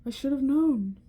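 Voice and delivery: a lightly voiced amused old wizard; chuckling mutter. A narrator's reading. Wizard amused to see the cat, chuckling. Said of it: "He chuckled and muttered".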